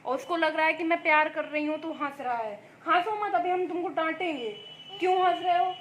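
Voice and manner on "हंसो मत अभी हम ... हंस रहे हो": half-hearted scolding, a touch higher; mock scolding. Real, not acted. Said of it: "डांट रही हूँ मैं तुमको".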